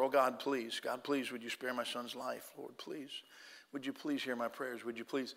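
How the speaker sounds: soft repeated pleading to the Lord; hushed prayer. Retold or imitated. Father pacing the waiting room, praying softly for his son. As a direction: murmur the prayer over and over while pacing.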